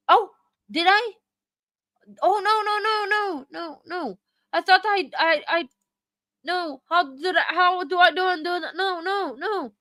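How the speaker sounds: high, flustered oh no no; panicking after a wrong click. Real, not acted. Streamer who muted a chatter, panicking. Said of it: "see me panicking now".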